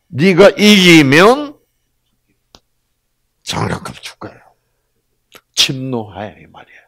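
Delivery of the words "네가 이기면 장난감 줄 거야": 들뜨게 시작해 속삭이듯 끝나는 놀리는 말투; 아들 약 올리듯 장난스럽게; 장난치는 아빠. Acted. 아빠가 아들에게 장난. (아빠가 아들에게 장난감 걸고 놀리듯, 끝은 속삭임)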